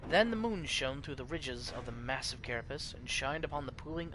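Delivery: put-on grand old-world narrator setting the scene; epic lore narration. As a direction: read it like an ancient chronicle. GM reads epic intro lore.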